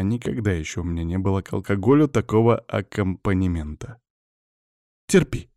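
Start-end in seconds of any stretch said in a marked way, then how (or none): 5.1-5.5 high, mildly commanding order. Acted. Witch orders her wounded patient, high firm command. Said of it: "скомандовала ведьма".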